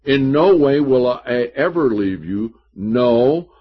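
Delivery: loud, weighty stress on "no way" and "No"; emphatic. Acted. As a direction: land each "no" as an absolute promise. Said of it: "can't have anything more emphatic".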